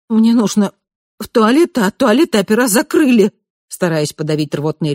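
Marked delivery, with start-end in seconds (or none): 0.1-3.3 gurgling, fighting back nausea; gulping it out, high and strained. Acted. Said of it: "пробулькала".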